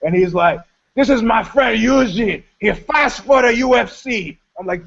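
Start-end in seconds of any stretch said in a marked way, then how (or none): 0.9-4.4 higher, eager showing-off introduction; a touch of a braggart presenting his friend; mock proud Russian guy.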